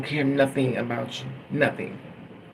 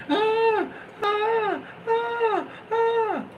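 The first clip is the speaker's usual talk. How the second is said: much higher mock screams "Ah, ah", repeated; imitating his screams; much slower than usual. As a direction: mimic a man screaming in the ward, way up high. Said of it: "He's screaming".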